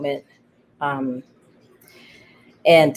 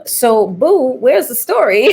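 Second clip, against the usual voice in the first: high, louder playful imitation with a laugh; teasing Keith quote; 7 semitones higher, 5 dB louder than usual. Playwright mimics her dramaturg calling her boo, laughing. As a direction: tease her like a fond mentor.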